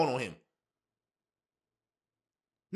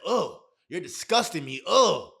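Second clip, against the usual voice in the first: disgusted; slower than usual. Retold or imitated. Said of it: "She said".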